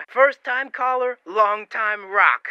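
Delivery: eager caller. Acted. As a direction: drag it out proudly. Caller's jokey greeting.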